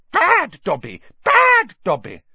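high, loud elf shouting, long punched BAD; shouting Dobby. A narrator's reading. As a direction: scold yourself frantically in a squeaky shout.

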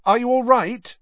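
loud, worried. A narrator's reading. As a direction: call out in alarm. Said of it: "Harry said loudly".

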